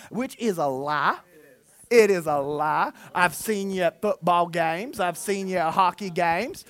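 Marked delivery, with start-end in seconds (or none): none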